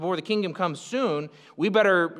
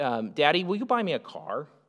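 put-on voice of a little kid; 3 semitones lower, 4 dB quieter than usual. Making a point with an example, acting out a little kid asking his dad. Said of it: "like a little kid coming and asking".

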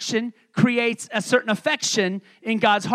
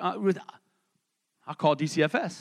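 mock joking tone, much slower; 5 semitones lower, 7 dB quieter than usual. Retelling what he said after being told he's shorter; retelling a joking threat.

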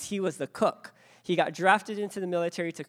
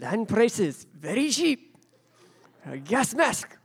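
put-on Japanese accent, clipped phrasing; 4 semitones higher, 3 dB louder than usual. Repeating what a man said, in an imitated Japanese accent. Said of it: "He said it with a Japanese accent".

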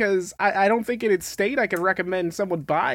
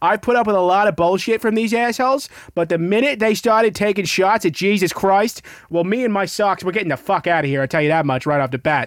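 put-on Boston accent, laid on thick; 3 dB louder than usual. Redoing another speaker's remark, in a full on Boston accent. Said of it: "I really want to redo that with like a full on Boston accent".

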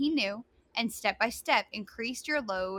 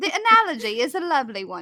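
very loud, terrible put-on British accent; 3 semitones higher, 8 dB louder than usual. The other speaker suggests a British accent, so the speaker reads in a British accent. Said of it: "It'd be better in a British accent".

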